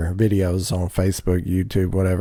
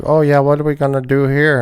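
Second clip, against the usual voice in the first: put-on Midwestern accent; 4 semitones higher than usual. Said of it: "They say it like".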